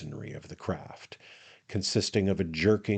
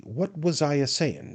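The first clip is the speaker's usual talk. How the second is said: high-pitched, affected wondering; musing attorney; 8 semitones higher than usual. A narrator's reading. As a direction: feign having lost your thread. Attorney feigns forgetting, fishing for drink.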